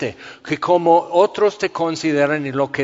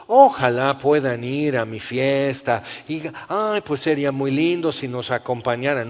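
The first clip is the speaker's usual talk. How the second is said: mock polite invitation. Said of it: "No, es un llamado así".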